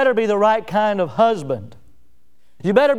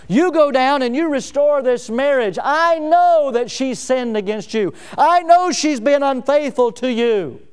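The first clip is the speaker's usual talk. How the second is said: God ordering Hosea to go restore the marriage; voicing God; 6 semitones higher than usual. But God told Hosea.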